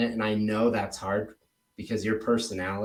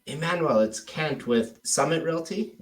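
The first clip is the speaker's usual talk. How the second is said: higher-pitched phone introduction; cold-calling agent; 5 semitones higher than usual. Pretend. Agent introduces himself to homeowner, higher phone-script voice. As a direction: introduce yourself on a sales call, pitch lifted. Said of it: "using the Mike Ferry script".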